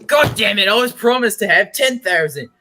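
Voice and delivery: put-on angry outburst in a muddled Australian accent; bad Australian with a stray Scottish or Polish tinge; botched Australian accent. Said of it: "it's the fucking Australian accent".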